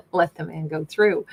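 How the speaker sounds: repeating it through a laugh; amused chuckling repeat. Retold or imitated.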